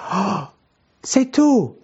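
high, delighted "oh, it's you!"; the sudden joy of recognising a friend; a sharp high lift of surprise; surprised recognition. Acted. Disciples recognising Jesus, acted.

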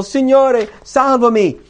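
high, loud plea while sinking; desperate cry for help. A narrator's reading. Peter sinking in the sea cries to the Lord for rescue. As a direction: cry out to be saved. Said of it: "gridò dicendo".

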